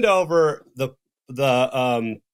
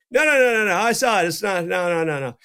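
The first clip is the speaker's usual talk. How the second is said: higher, emphatic string of no; insistent denial; 3 semitones higher, faster than usual. Retold or imitated. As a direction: wave off everyone, stubborn.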